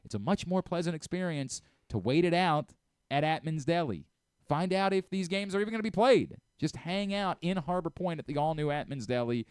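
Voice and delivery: upbeat host reading a sponsor spot; host reading the sponsor ad for listeners, casual pitch; live ad read. Acted. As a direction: sell the deli easy and friendly.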